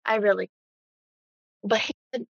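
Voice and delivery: mic cutting in and out; words dropping out on a bad mic; choppy cut off endings. Real, not acted. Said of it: "your mic's going in and out".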